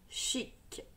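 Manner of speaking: "Chic" said in a soft whisper. Shown as a demonstration. Teacher repeating "Chic" to a child, in a soft whisper. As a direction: whisper "Chic" back gently. Repeats word softly after example.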